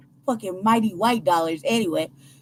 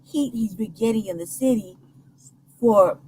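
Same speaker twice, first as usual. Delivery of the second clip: breaking up over a bad line; crackly cordless phone; slower than usual. Real, not acted. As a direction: voice fading in and out on phone. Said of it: "you're fading in and out".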